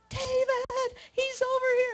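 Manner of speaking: high, far-carrying call; calling out across the woods; yelling for David. Retold or imitated. Wife calls husband to the fallen moose, high yell. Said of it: "I yelled".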